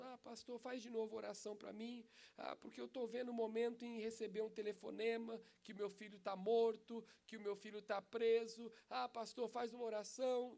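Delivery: a hint of a weeping mother begging; pleading mother. Mother begs the pastor to pray, mock tearful plea. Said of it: "ela foi lá chorando".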